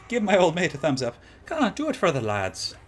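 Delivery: a hammed-up, badly faked Australian accent; terrible Australian accent. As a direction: play a bloke from Australia, badly. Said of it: "I'll give you guys a terrible Australian accent".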